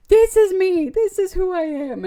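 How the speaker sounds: put-on girl facing the masks, defiant and loud; defiant shout. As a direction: shout it to drive them away.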